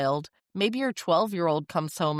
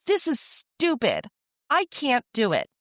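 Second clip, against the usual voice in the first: put-on frustrated child yelling; 7 semitones higher than usual. Child fed up with homework yelling at parent, frustrated. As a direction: throw the words out like a kid fed up with homework.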